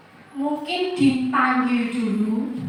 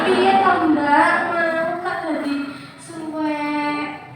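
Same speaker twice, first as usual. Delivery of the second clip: slow, sing-song "Piye to" rising at the end; drawn-out reproach; 2 semitones higher, 3 dB quieter, slower than usual. Shown as a demonstration. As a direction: stretch out a blaming question. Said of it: "Beda ya, Bu?".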